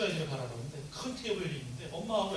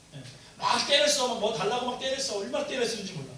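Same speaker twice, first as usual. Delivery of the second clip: ordinary talk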